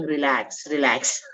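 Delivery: calm the angry man down gently; soothing relax. Retold or imitated. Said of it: "And that I'm saying".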